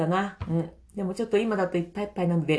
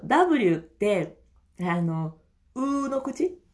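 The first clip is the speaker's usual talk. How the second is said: ordinary talk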